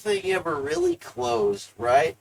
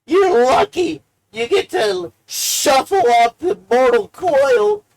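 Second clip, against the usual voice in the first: guilt trip; 4 semitones higher, 5 dB louder than usual. Pretend. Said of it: "guilt trip them into helping me".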